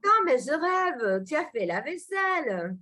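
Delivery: mock amazement, starting high then settling; a little sarcastic. Shown as a demonstration. Teacher demonstrates disbelief that someone did the dishes, a little sarcastic. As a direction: act lightly sarcastic disbelief, high on the opening. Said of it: "C'est un peu sarcastique".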